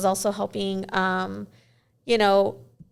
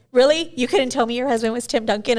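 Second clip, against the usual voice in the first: mock disbelief; 2 semitones higher, 4 dB louder than usual. Mock reproach to the wife.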